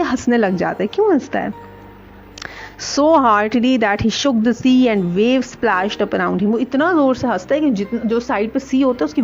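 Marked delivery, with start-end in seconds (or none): 2.8-6.4 slow, careful read-aloud for students; slow storybook reading. A narrator's reading. Teacher reading the story to her class slowly.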